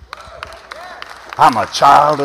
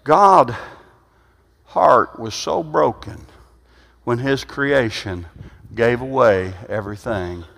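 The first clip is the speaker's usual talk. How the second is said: tender preaching; 4 semitones lower than usual. Acted. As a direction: let it sink in gently. Tender turn after loud preaching.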